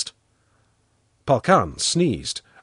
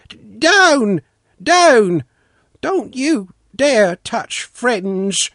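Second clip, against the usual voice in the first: loud, raised-pitch orders to a dog; shouted command; 11 semitones higher, 7 dB louder, slower than usual. A narrator's reading. Watchman warning Polkan off the children, shouting. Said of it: "the watchman shouted".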